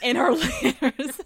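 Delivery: slow, laughing Southern drawl on "her"; southern accent. Real, not acted. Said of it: "my southern accent came out".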